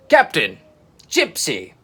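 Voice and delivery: loud happy call; delighted greeting. A narrator's reading. Iggy greeting his friends, delighted call. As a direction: call out overjoyed. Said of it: "he beamed with delight".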